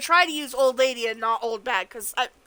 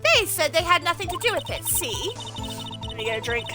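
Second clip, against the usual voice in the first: put-on cranky old woman, slightly raised pitch; a lightly voiced bossy old lady; 4 semitones higher than usual. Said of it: "I'm doing my old lady voice".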